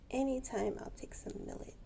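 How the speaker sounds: eager whispered bird line. Retold or imitated. Owner voicing her millet-loving bird, whispered. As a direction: whisper the bird's greedy answer. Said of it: "She's like".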